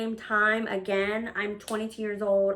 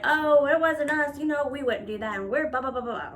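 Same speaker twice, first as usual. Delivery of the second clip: a hint of mean-girl mimicry; mock Barbie clique; 4 semitones higher than usual. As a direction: mildly imitate prissy innocent protests, trailing into dismissive blahs. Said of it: "the Barbie group, they were like".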